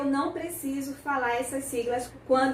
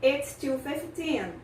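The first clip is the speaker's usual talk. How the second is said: slow model answer; much slower than usual. Shown as a demonstration. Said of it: "que é fifteen".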